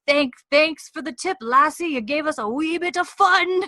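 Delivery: high, loud mock-jolly clansman; rowdy drinking-buddy voice, playfully exaggerated; teasing Highlander. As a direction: tease her with hearty, put-on thanks. Men teasingly thank her in story.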